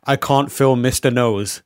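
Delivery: speaking with a numbed face; words slurred from dentist numbing; numb mouth. Real, not acted. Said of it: "I have had my face numbed".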